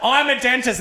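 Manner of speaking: high, proud proclamation; very confident. Retold or imitated. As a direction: announce it with mock total self-assurance. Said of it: "so much confidence".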